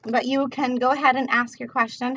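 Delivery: talking between drags; words around a smoke; smoking while talking. Real, not acted. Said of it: "I'm almost done smoking".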